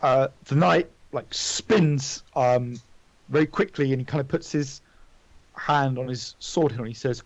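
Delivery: ordinary talk, nothing marked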